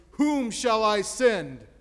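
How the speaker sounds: God calling out loud and slow; thunderous voice. A narrator's reading. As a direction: boom it out as God from the throne. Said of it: "God speaks in a thunderous voice".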